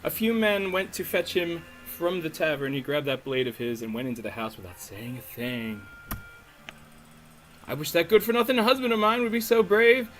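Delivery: hammed-up Southern-or-Cockney gossip; uncertain Southern-Cockney accent. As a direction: tell it indignantly in a wobbly Southern-Cockney accent. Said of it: "I don't know if she's Southern or British".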